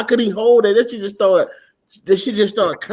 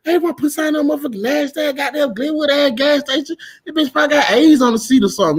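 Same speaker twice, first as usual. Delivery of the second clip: higher-pitched, run-on mock protest; retold indignant refusal; 6 semitones higher than usual. Woman objects to the gas station restroom, indignant. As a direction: imitate her ranting about that nasty place.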